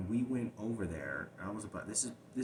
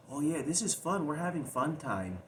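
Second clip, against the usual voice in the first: retold cheerful child; 7 semitones higher, 5 dB louder than usual. Groomed child voiced cheerfully.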